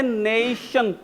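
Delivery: नेशन with a long, stressed first syllable; syllable emphasis. Shown as a demonstration. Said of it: "syllable use किया जा रहा है". (नेशन का पहला syllable खींचकर)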